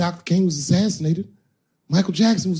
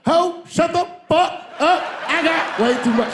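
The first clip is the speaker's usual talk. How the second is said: high squeaky Kevin; 13 semitones higher, 4 dB louder than usual. Retold or imitated. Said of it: "He'd be like".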